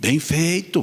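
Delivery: Brazilian mineiro accent. Showing a local expression in the tone of Minas Gerais, Minas Gerais accent. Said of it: "e com esse tom, que é o nosso mineiro".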